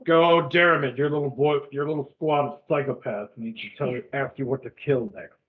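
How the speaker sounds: lightly voiced gruff mocking judge; a hint of gruff scorn. Rival judge sneering at Derriman, light gruff voice. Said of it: "another gruff voice".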